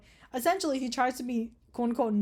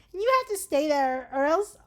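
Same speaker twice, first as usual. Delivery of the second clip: higher, louder mock nerd threat; 5 semitones higher, 5 dB louder than usual. Nerdy kidnapper threatening the captive, nerd voice. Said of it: "a fucking nerd voice".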